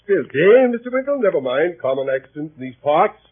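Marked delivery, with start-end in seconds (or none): none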